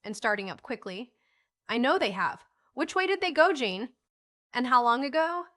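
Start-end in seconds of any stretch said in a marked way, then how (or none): 1.7-5.5 mildly irritated, higher and louder on the questions; impatient questioning with a touch of irritation. A narrator's reading. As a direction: demand answers, a little vexed. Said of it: "cried Van in extreme irritation".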